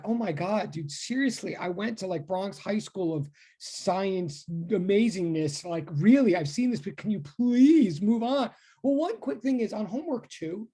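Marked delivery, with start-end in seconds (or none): 0.0-8.5 mock-bored know-it-all student, lightly voiced; a hint of an impatient student begging you to hurry; bored smart student. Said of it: "for those people who are, are really like".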